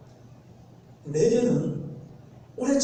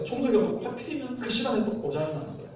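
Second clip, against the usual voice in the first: usual speaking voice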